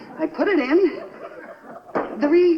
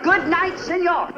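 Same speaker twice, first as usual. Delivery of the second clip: laughing farewell; 4 semitones higher than usual. Acted. Wife mockingly bidding the suitor goodnight with a laugh. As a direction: toss the goodbye off gleefully. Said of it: "repeated farewell, second laughing".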